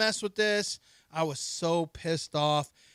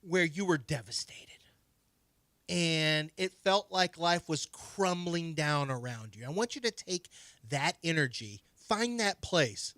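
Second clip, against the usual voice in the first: mock drama director. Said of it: "the director is asking her".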